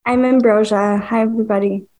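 sick, congested voice; stuffy nose. Real, not acted. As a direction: talk through a blocked nose. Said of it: "a bit under the weather today".

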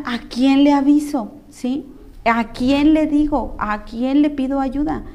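slow, drawn-out questions, each one weighed; desesperación relatada. Retold or imitated. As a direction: stretch out each question, at a loss. Relives not knowing whom to call. (preguntas lentas, con angustia contenida)

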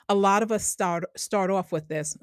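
Long Island accent. Real, not acted. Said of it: "there goes that Long Island accent again".

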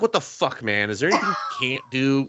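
incredulous exclamation. Retold or imitated. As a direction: toss it out like you can't believe what you just saw. She marvels at his feats.

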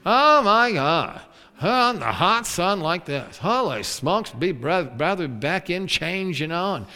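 a hint of whiny complaining; whining Israelites. Preacher mimics the Israelites, lightly whining. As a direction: mope and grumble about the heat. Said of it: "they were whining and complaining like crazy".

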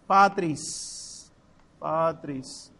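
PATRIS, ending on a sounded s; Latin pronunciation. Shown as a demonstration. Teacher giving students the Latin for "del Padre", careful pronunciation. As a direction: say patris with a hissed final s. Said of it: "si yo digo del Padre".

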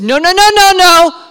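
high, loud string of protests; loud, rising, insistent objection; emphatic refusal. Acted. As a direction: cut them off, shouting it down. Jesus refuses the crowd's news.

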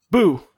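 sudden spooky boo; startling boo. Acted. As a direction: jump out and say boo. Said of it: "Did I scare you?".

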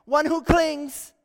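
solemn slow pronouncement; slow emphatic naming. Acted. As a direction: lay out each word with weight. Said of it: "God is literally saying to Jacob".

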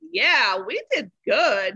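slow, pleased self-congratulation; satisfied pride. Retold or imitated. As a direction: savor the win, drawn out. Proud remark leaving the bakery.

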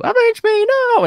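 high strained cry of revenge; anguished shout. Retold or imitated. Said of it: "Harry in Spider-Man Two".

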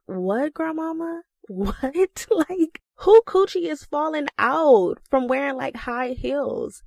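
high, squeaky incredulous question through laughter; cracking up while asking what; laughing in disbelief. Retold or imitated. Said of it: "And I'm on the floor dying".

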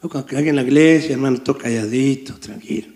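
mock hush. Mocking quiet churchgoer.

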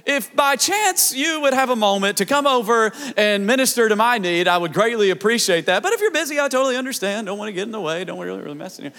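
timid, overly polite petition, fading away to near silence; a dainty socially acceptable prayer that shrinks into a murmur; mock polite prayer. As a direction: imitate a prim churchgoer asking nicely, then trailing off. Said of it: "It wasn't a cry that was like".

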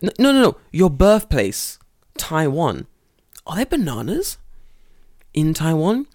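loud, high, slowed correction; slow patronizing. Retold or imitated. Teacher slowly corrects Tanaka sensei about his birthplace. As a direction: correct him slowly like a child. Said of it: "I was like".

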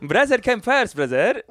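put-on joking comeback in a Lebanese Canadian accent. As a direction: argue it in imitated Lebanese Canadian English. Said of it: "with a Lebanese Canadian accent".

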